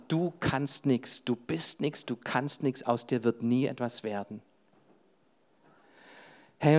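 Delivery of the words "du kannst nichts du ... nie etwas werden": retold insult. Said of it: "uns das wortwörtlich an den Kopf geschmissen".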